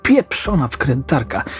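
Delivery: slow, mildly furious curse; a touch of rage, drawn out; furious howl. Acted. Jeffrey raging at the broken drill, mildly. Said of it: "zawył z wściekłości".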